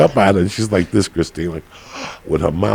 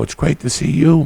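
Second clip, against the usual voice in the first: mock excited greeting; 9 semitones higher, 4 dB louder than usual. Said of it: "And I go".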